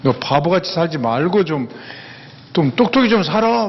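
mock-indignant nagging at her friend; 친구가 화내며 다그치는 말투; angry scolding. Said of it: "막 그러면서 막 화를 내".

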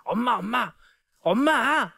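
acted-out child pestering for Mom, pitched high; insistent child calling. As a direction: call out repeatedly like an impatient kid. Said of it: "그때 막 얘기를 합니다".

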